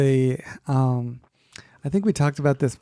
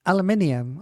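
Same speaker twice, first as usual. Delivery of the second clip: put-on English accent; 4 semitones higher than usual. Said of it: "He's all".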